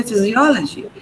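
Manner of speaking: "physiology" stressed on the O; "physiology" with the third syllable carrying the stress; stressed syllable shown. Shown as a demonstration. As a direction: say fizzy-O-lo-jee, O strong. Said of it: "this particular syllable is stressed".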